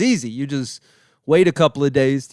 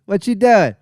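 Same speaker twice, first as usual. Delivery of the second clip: Ralphie impression; 6 semitones higher, 4 dB louder than usual. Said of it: "That's Ralphie, higher pitched".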